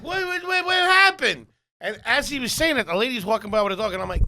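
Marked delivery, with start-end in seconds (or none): 0.0-1.5 high, startled double-take; much higher, alarmed wait wait wait; retold alarm. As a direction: act shocked, pitch way up.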